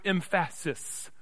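"emphasis" with the stress moved to the second syllable; wrong-syllable stress. Shown as a demonstration. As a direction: say "emphasis" slowly as em-FA-sis. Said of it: "I put that on the wrong syllable".

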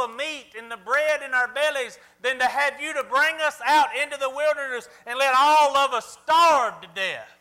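mock whiny crying complaint; whiny baby voice. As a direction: whine it like a fussy baby. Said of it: "whiny baby voice".

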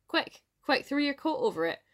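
high-pitched, hurried-sounding storybook plea; urgent urging. A narrator's reading. Wife urging husband to trap bannock, urgent urging. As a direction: urge him to act at once.

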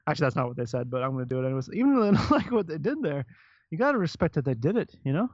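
hesitant, Canadian-sounding lilt; Canadian accent. Retold or imitated. Quoting someone at a festival, Canadian-sounding accent. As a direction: attempt Minnesotan, land on a light Canadian accent. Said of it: "you just sounded Canadian".

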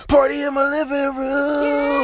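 high, slow, booming wrestling announcer shout; booming wrestler voice. Acted. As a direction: roar the name out like a wrestler hyping the crowd. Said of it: "my wrestler voice".

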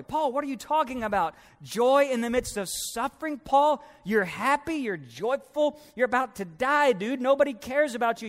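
high, fast disbelieving questions to Paul; incredulous skeptic. Acted. A listener challenging Paul, incredulous and fast. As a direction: play the doubter who thinks Paul's crazy. Congregant doubting Paul's joy.

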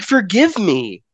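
loud, high, drawn-out cry for forgiveness; mock dying plea, stretched out. Acting out a dying man's plea.

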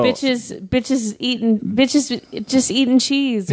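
catchphrase delivery. Shown as a demonstration. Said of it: "What was the catchphrase".

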